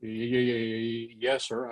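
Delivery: slow, stuttering reply; cowed, stuck on the first sound; nervous stammer. Retold or imitated. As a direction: imitate a kid bracing to be yelled at. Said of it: "I thought he was gonna holler at me".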